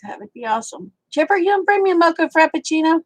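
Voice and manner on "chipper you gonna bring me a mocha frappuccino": playful. Real, not acted. Teasing request to a viewer.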